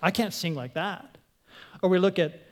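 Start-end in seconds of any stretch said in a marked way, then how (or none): 0.0-1.2 much softer, lower self-doubt; insecure inner voice. Retold or imitated. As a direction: mutter it to yourself, discouraged. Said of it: "we think".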